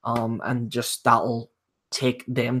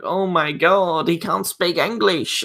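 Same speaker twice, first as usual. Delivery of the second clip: mocking complainers; 5 semitones higher, slower than usual. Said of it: "people complaining about that".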